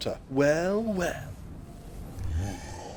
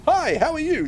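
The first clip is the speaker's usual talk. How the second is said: a much higher, overly sweet hello; 1 sheepish high greeting; 14 semitones higher than usual. Real, not acted. Gamer cheerily greets the friend he just fireballed. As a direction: sweet-talk them right after attacking.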